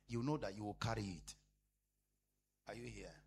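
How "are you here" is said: whispered check-in with the church. Real, not acted. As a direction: drop to a bare whisper. Preacher checks on congregation.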